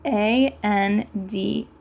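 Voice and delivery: slow letter by letter "A N D"; slow spelled letters; spelling aloud. Shown as a demonstration. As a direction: spell each letter slowly for kids. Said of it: "How do you spell and?".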